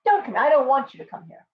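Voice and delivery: mock-indifferent don't come here; a teasing don't come here to lure the bird; reverse psychology. Real, not acted. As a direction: pretend you don't want the bird near. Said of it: "Reverse psychology".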